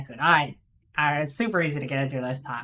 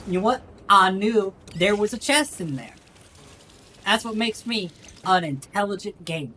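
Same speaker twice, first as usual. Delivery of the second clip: put-on Southern accent. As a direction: brag like a smug country boy. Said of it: "do the Southern accent".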